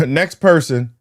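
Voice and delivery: chuckling as the call repeats; laughing through it. Retold or imitated. Teller laughing while imitating the agent's call.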